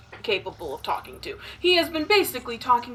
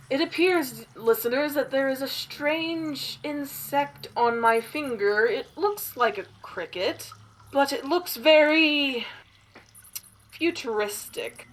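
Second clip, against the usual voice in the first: radio broadcaster voice; 2 semitones higher than usual. Acted.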